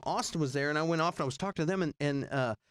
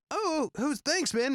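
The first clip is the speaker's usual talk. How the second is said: imitating a rock star; 13 semitones higher, slower than usual. A rock musician voiced.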